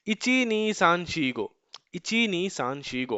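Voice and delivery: slow counting drill. Shown as a demonstration. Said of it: "आपको ऐसे practice करना है".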